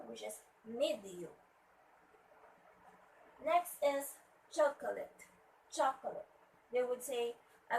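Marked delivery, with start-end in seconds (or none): 0.6-1.4 "medium" with ME stressed, then falling; stress on first syllable. Shown as a demonstration. Teacher showing where stress goes, "medium" stressed on ME. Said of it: "stress should be at the first syllable". 4.5-6.2 "chocolate" as CHOC-o-late, falling; stress on first syllable. Shown as a demonstration. Teacher introducing the next word, "chocolate" stressed on CHOC. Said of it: "stress should be at the first syllable".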